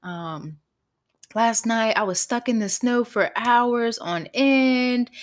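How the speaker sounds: mildly aggrieved retold reproach; imitating mad boyfriend. Boyfriend stuck in snow scolding his girlfriend, mildly mad. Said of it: "He was so mad at me".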